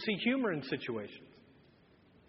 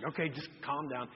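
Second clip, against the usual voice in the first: softly to himself; 7 semitones lower, 9 dB quieter than usual. Retold or imitated. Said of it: "I'm just like".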